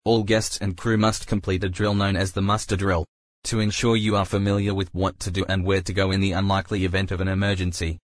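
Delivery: echoing ferry loudspeaker. Real, not acted. Ship safety announcement playing.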